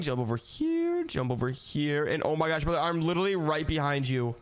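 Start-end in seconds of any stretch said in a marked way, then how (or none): 0.0-1.0 high, eager call; excited call. Acted. Racing through parkour, calling out.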